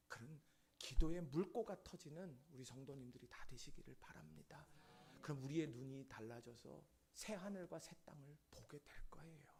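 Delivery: ordinary talk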